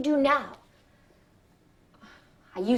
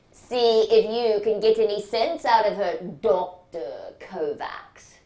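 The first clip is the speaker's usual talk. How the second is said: imitating the surgeon; 5 dB louder than usual. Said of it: "He said".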